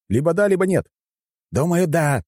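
high-pitched exasperated yell. A narrator's reading. Fighter answering his comrade mid-battle, yelling. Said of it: "закричал он".

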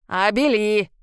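impatient great-grandmother shouting her name. A narrator's reading. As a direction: yank her name across the glade. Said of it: "снова крикнула нетерпеливая прабабка".

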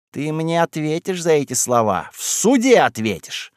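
rising to a high, slow threat; threatening. A narrator's reading. Stepanida threatens Galka, furious. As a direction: threaten her with the court. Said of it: "подскочила Степанида".

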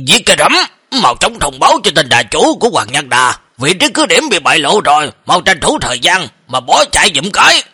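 mildly heated scolding of an underling; acted boss's irritated order; exasperated rebuke. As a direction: scold a dim subordinate with impatient urgency. Boss angrily rebukes his deputy.

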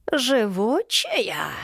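slow, high, grudging crone drawl; displeased. A narrator's reading. Yaga grudgingly notes Elena survived, slow and displeased. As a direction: grumble it as a disappointed witch. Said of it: "недовольно произнесла Яга".

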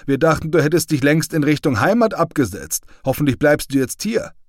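a soldier welcoming back his comrade, lightly voiced; comrade's cheerful voice. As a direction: tease a returning friend, lightly voiced. Comrade Gollnick greeting Krüger.

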